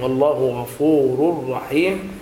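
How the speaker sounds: غفور رحيم slowly joined, "ghafuurur-rahiim"; correct merging. Shown as a demonstration. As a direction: merge the tanween of غفور into ر. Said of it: "وليس".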